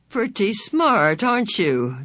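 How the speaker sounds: slow, sneering, mildly snarled taunt; hint of a snarl. A narrator's reading. The thought taunts Charles Wallace with a slight snarl. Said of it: "she detected a snarl".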